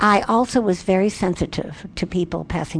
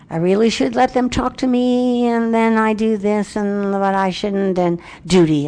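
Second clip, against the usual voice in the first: dutiful fretting. Acted. Acting out duty-bound inner talk.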